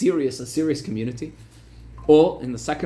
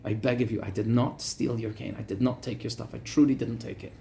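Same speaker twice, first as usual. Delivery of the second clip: softer, mild retold pleading; begging; 4 semitones lower, 5 dB quieter than usual. Rabbi begging the wealthy man not to beat him, softly pleading. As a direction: quietly plead with him not to hit you. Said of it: "Rav Avish started to beg him".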